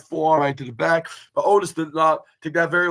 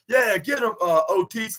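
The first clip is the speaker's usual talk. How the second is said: imitated cheering shout; 6 semitones higher than usual. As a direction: mimic a ringside supporter egging someone on. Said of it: "start shouting like".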